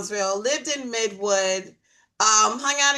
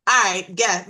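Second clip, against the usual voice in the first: louder, daring "All right, guess."; bold dare; 6 dB louder than usual. Retold or imitated. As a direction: toss it out as a challenge. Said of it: "So I said just like that".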